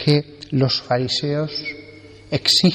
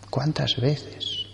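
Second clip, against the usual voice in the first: slow, much softer repeat; a soft, drawn-out ¿Cuántas veces? like an afterthought; quiet echo; 7 dB quieter, slower than usual. Shown as a demonstration. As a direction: drop right down and let ¿Cuántas veces? linger.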